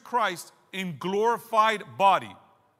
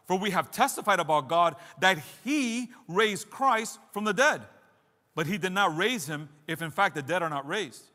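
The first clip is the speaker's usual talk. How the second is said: punchy declamation of a preacher reading scripture; emphatic scripture reading; 4 dB louder than usual. Real, not acted. Preacher reading Paul's letter to his church, emphatic. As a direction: drive the argument home, key words hit hard. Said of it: "I'm gonna give it emphasis".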